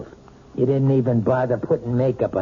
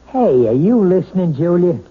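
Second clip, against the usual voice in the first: loud, sharp call for her attention; irritated husband barking her name; angry demand; 5 semitones higher, 6 dB louder than usual. Acted. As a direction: snap at her to listen. Husband berating wife at dinner.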